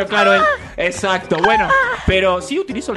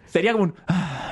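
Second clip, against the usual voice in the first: shy moan demo; 3 semitones lower, 4 dB quieter than usual. Shown as a demonstration. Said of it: "¿cómo gimes?".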